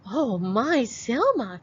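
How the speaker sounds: put-on high, sweet old granny calling. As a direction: coo like a loving grandmother. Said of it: "cried Granny".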